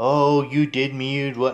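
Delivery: mock screaming, slow, drawn-out, words stretched. Picturing Zuma sitting there when arrested, imitating Zuma screaming. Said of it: "like he's screaming".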